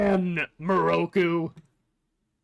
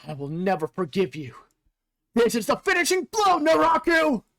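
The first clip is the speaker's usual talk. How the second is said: defiant shout; 3 semitones higher than usual. Acted. Reading a defiant battle line.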